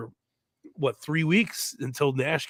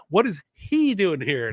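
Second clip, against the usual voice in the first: shocked announcer; 4 semitones higher, 3 dB louder than usual. Retold or imitated. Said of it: "Love the".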